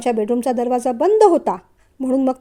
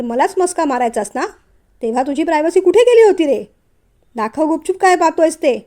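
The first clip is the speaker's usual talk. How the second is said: mock angry. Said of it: "गिरीशसुद्धा रागाने म्हणाला".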